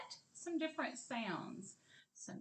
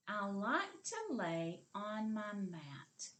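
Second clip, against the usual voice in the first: slow choral repeat; slower than usual. Shown as a demonstration. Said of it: "Say it with me".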